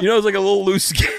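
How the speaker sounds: cracking up mid-sentence; laughing hard. Real, not acted. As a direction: laugh through the words.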